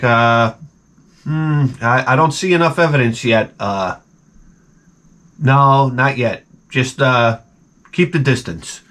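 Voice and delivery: halting, half-interested mock captain; indifferent captain. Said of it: "guy didn't give a shit".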